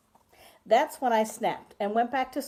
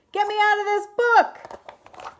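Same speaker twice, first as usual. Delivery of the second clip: high panicked scream; 13 semitones higher, 9 dB louder than usual. Acted. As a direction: shriek it out in a high voice. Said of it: "and I screamed".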